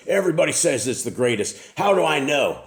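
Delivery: high, rising doubtful voice; skeptical questioner. Retold or imitated. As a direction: mimic a doubting commenter. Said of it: "a guy on YouTube goes".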